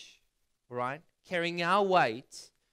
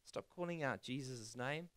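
retold hushing, much softer; low-key, quiet telling-off; hushing someone; 3 semitones lower, 8 dB quieter than usual. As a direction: drop the volume to shush him. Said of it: "People are telling him".

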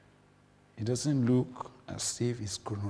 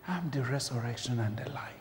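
softly whispered promise; 6 dB quieter than usual. Acted. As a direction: whisper it close, like God in your ear. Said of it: "He will whisper to you and say".

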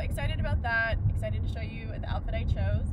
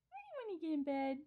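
higher, brisk playful scolding; scolding a pet; 7 semitones higher, 10 dB quieter than usual. Real, not acted. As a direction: tell the dog off, half-amused. Scolding the dog at bedtime.

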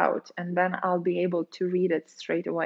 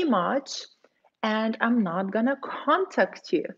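calm respectful reply. Pretend. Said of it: "If somebody says to you".

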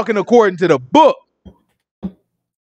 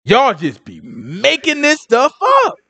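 exasperated retort; 7 semitones lower, much slower than usual. Retold or imitated. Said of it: "I said".

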